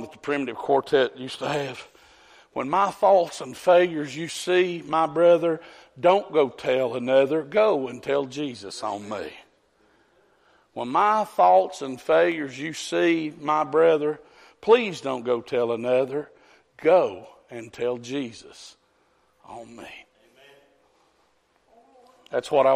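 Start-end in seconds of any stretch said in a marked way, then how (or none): 2.5-9.3 slow, measured spoken verse; recited song lyric. Real, not acted. Preacher quotes a quartet's song to church, measured recitation. 10.7-20.1 slow, deliberate verse, fading away; recited song lyric. Real, not acted. Preacher repeats the song as a plea, slow recitation.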